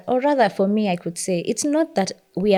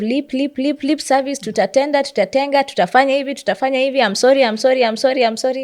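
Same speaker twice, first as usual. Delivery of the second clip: higher-pitched, repetitive string of empty promises; mock lip service; 4 semitones higher, faster than usual. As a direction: rattle off hollow pledges and apologies, mimicking a politician. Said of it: "there's a lot of lip service".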